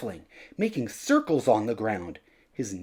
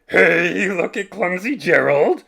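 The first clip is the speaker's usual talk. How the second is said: loud, high jeering taunt; mean animals mocking the clumsy giraffe; sneering animals; 6 semitones higher, 9 dB louder than usual. A narrator's reading. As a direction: jeer at him like a mocking crowd. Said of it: "the animals all sneered".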